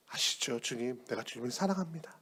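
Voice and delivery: soft, whispered declaration of love; hushed confession. Acted. Peter softly confesses his love to Jesus. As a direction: breathe the words softly.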